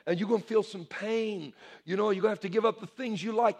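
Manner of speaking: lightly voiced sly devil; voice of the enemy. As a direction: softly lure them away from God. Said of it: "That's the way the enemy talks".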